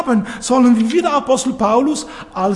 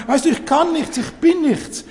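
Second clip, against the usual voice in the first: higher, whiny self-putdown; lightly mock someone running themselves down; a hint of a whimpering believer, pitched up; mock self-pity; 6 semitones higher than usual. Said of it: "die sich niedermachen und sagen".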